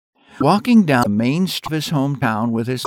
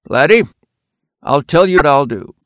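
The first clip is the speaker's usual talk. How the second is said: a hint of a kindly storekeeper; 4 semitones higher, 7 dB louder than usual. A narrator's reading. Kindly storekeeper offers deal.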